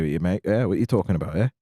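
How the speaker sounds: London accent, matey and casual; chatty Londoner accent; British accent. Shown as a demonstration. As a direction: talk like a London mate. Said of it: "Kept going with my British accent".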